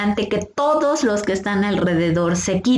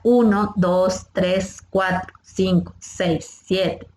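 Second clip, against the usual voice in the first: counting aloud; slower than usual. Shown as a demonstration. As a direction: count out compressions in an even beat. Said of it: "tienen que ser contadas en voz alta".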